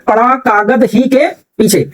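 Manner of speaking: "कागज" kept as one word, then "ही के पीछे"; comma phrasing demo. Shown as a demonstration. Teacher reads out the comma example, deliberate word grouping. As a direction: read "पड़ा कागज ही के पीछे" with कागज whole. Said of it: "हमने द के पहले किस पर लगा दिया".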